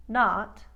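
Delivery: "not" with the o slightly wider; loud Bronx "not", vowel a little open; Brooklyn vowel. Shown as a demonstration. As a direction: widen "not" slightly from neutral. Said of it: "all three variations".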